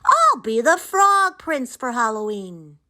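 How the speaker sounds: high, excited frog voice; gleeful high-pitched proclamation; Froggy crying out. A narrator's reading. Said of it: "cried Froggy".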